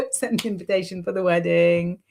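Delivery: laugh, then repeat it lightly and fast; laughing request. Real, not acted. Reader asking for a wedding invitation, laughing.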